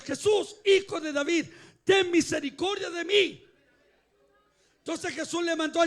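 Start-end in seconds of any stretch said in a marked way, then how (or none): 0.0-3.4 raised, pleading mock shout; retold loud cry. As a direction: imitate the blind man calling out more insistently. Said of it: "y gritó con fuerte voz". (clamor imitado con voz más fuerte)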